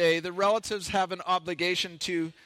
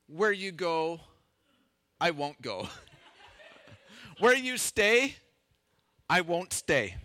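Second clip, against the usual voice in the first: reluctant mock vow; slower than usual. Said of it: "Many of us are probably more like".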